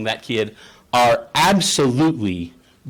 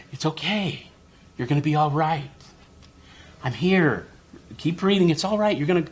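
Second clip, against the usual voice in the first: gentle reassurance, lifting higher; soothing parent; 4 semitones higher than usual. Acted. Mom giving emotional first aid, soothing and gentle. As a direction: talk a panicking child down tenderly. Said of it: "mom's doing this emotional first aid".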